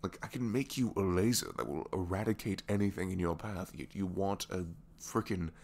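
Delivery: ranting in disbelief at a pointless demand; exasperated retort. Retold or imitated. Gadget maker questioning an absurd gun blueprint, exasperated. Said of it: "And I'm just like".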